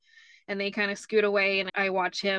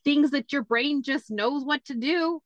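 higher, matter-of-fact sister; know-it-all sister; 6 semitones higher than usual. Retold or imitated. Sister lecturing brother, higher and matter-of-fact. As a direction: explain it as obvious.

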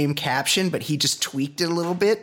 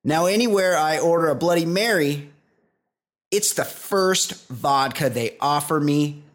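measured, emphatic commercial delivery; scripted host-read advert; sponsor ad read. Acted. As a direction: sell the whiskey in deliberate, separated phrases. Resumes reading the whiskey commercial.

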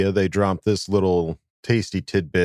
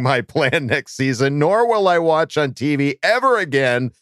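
higher, mock whiny fan reading; sad fan voice; 6 semitones higher than usual. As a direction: read it like a sulking fan. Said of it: "this one sad Raider fan said".

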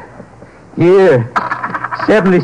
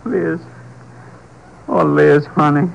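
tender apology; slower than usual. Acted. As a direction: ease off and say sorry gently. Husband apologizes after outburst.

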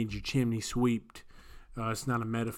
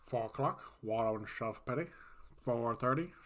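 lightly lowered voice from back of throat; Grinch; 5 dB quieter than usual. Shown as a demonstration. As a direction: push the voice back and to the side, softly. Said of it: "I can do the Grinch pretty well".

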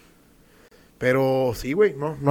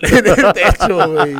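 loud, drawn-out through laughter; laughing; 5 semitones higher, 10 dB louder, slower than usual. Real, not acted. Joking with friend about the mess, laughing loudly. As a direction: crack up while saying it. Cracking up at his own joke.

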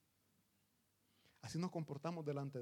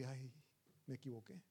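ashamed admission; 4 semitones lower, 9 dB quieter than usual. Retold or imitated. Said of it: "viene la vergüenza".

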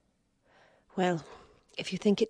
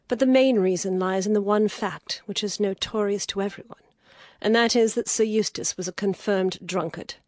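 rising anger; 11 semitones higher than usual. Acted. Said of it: "the wild anger died away".

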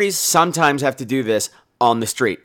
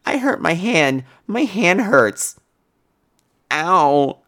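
slow, whiny complaint about a hand; hammed-up pitiful moan with a drawn-out ow; mock whiny patient; much slower than usual.

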